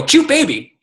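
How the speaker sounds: very high sing-song coo; a hammed-up gushing comment; mock cooing. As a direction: coo it like a bored liker. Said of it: "they go".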